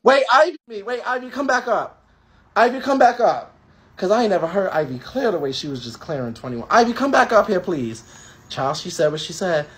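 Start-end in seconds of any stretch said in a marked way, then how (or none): 0.0-8.0 calling out. Real, not acted. Host calling guest back on.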